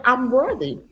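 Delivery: affirmation with power. Retold or imitated. Coach making a client repeat her affirmation, with power. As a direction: model it for a client to repeat with conviction. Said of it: "say it with power".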